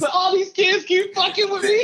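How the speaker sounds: Rapper rendition. Retold or imitated. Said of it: "best rapper rendition voice ever".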